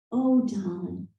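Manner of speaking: lightly imitated Boston accent; hint of Boston in a retold voice. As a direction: quote a kindly clerk in a Boston accent. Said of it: "in her wonderful Boston accent".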